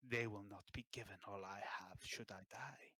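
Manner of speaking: hushed, breathy confidence; whisper. Acted. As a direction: lean in and whisper it. King confides about his heirs.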